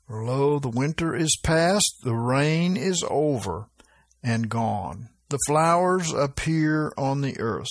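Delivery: measured, slightly lifted Bible reading voice; scripture reading. Acted. Pastor reading the Song of Solomon to his flock, measured scripture voice. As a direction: read the verse out to the congregation.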